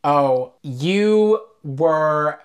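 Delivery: very slow, drawn-out "Oh, you were"; imitating a fan dragging out her praise; gushing fan. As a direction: stretch each word out with admiration. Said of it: "She was like".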